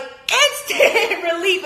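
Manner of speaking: slow, loud, laughing through the word relief. Real, not acted. Vlogger laughs about breakup relief, slow and loud.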